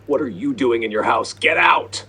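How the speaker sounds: indignant shout rising to a high yell; scream. Retold or imitated. Kid yelling at the homeowner to leave, screaming. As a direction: scream it high and loud at an intruder. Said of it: "had the absolute nerve to scream".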